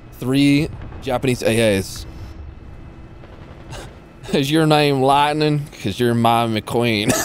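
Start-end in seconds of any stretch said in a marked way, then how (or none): 4.3-7.1 slow southern pickup line; slow, cheesy Southern US flirting. Pretend. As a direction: drag it out in a put-on southern twang. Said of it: "the southern voice is so, uh, fitting for those".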